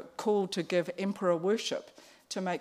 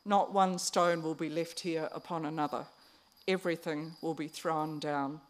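a touch of calm prophecy; calmly. Retold or imitated. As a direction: state it calmly, unhurried. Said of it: "Jesus says calmly".

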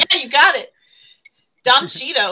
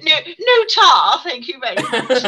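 mock British accent; 2 semitones higher, 4 dB louder than usual. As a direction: decline politely in a put-on British accent. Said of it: "Talk like that the rest of the episode".

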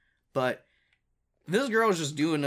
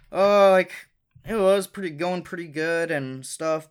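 a hammed-up replay of her chirpy phone chat, louder; mocking phone call; 3 semitones higher, 4 dB louder than usual. Mocking his girlfriend's phone call to a random guy, hammed-up and louder. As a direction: mimic the girlfriend gushing to a stranger on the phone. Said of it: "this is how a phone call went".

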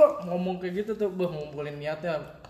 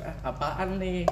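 retold girl's reply; 4 dB quieter, slower than usual. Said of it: "Terus dia bilang".

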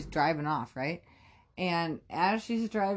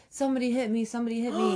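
higher-pitched imitation of an upset cry for help; retold distress; 5 semitones higher, faster than usual. Bloodied girl running up to the storyteller, imitated distress.

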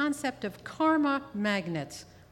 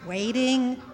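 slow puzzled echo; much slower than usual. Acted.

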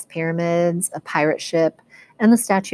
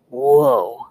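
amazed Grover; 4 semitones lower, 4 dB louder than usual. Acted. Grover amazed by game lobby.

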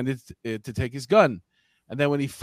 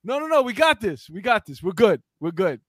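hasty reassurance; 5 semitones higher than usual. Acted. Acting Paul waving off police.

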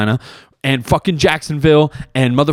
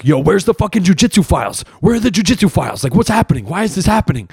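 mock-frantic searching, pitched up; SpongeBob; 4 semitones higher than usual. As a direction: play confused little workers scrambling for answers. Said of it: "All of them are running around like".

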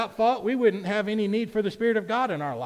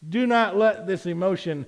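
preached Jesus reply; 8 dB louder than usual. Acted. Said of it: "In other words, he's like".

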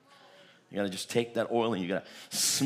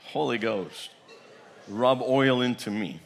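prayer. Shown as a demonstration. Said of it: "Come on, say".

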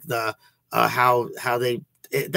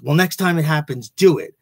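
stern order; 4 semitones higher, 4 dB louder than usual. Retold or imitated. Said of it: "And he goes".

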